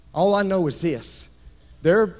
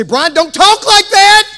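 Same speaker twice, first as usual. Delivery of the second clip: high, loud, drawn-out objection; exaggerated slow complaint; mock protest; 12 semitones higher, 11 dB louder than usual. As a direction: imitate a scandalized listener wailing. Voices an objecting listener.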